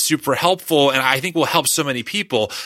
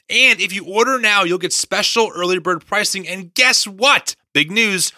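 ad read. Acted. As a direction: sell the Bible like a podcast ad. Host reads sponsor ad.

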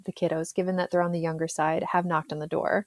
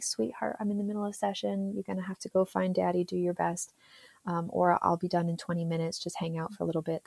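put-on softer, patient reassurance to a small child; gentle mom; 5 dB quieter than usual. Mom to her son mid-session, soft and patient. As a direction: let him down softly.

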